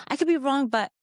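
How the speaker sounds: mock unsure disclaimers; overqualifying. Shown as a demonstration. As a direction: hedge each phrase apologetically.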